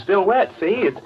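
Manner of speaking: high, eager, unhinged; crazed eagerness. Acted. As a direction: show it off like a prize, half mad. Madman shows the supposed head.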